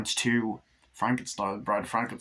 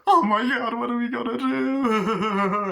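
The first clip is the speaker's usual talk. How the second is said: very high, loud slow wailing; hammed-up doll breakdown; panicked wail; 11 semitones higher, 6 dB louder, slower than usual. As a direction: wail in mock despair.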